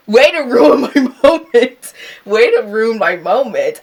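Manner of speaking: loud, high mock indignation through laughter; laughing mock complaint. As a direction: complain like your big moment got spoiled, laughing. Mock complaint about the deposit demand.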